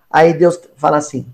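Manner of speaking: ordinary talk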